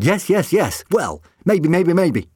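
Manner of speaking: high, loud and gleeful; bubbling over with amusement; laughing. A narrator's reading. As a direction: laughingly give in to the excitement.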